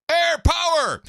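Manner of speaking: high, loud shouted call; drill instructor yell. Retold or imitated. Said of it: "would yell".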